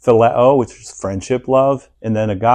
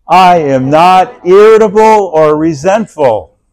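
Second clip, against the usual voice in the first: breathless half-laughed reading of the line; laughing through it; 7 semitones higher, 9 dB louder than usual. Real, not acted. Pastor reciting to the church, breaking into laughter. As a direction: read it while trying not to laugh. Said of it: "Sorry, sorry".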